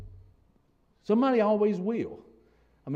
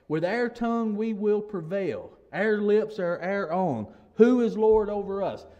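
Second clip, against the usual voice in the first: mock boast, stretched out and slightly raised; proud wicked; 2 semitones higher, 4 dB louder than usual. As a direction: quote the proud with slow defiance. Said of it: "they're proud".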